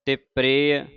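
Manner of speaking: ਪ੍ਰਿਯ said as pre, with the r joined under the p; careful pronunciation. Shown as a demonstration. Teacher spelling out the word for the class, careful. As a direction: sound ਪ੍ਰਿਯ as one quick syllable with the r. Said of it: "ਪੱਪੇ ਨੂੰ ਸਿਹਾਰੀ, ਪੈਰ ਵਿੱਚ ਰਾਰਾ".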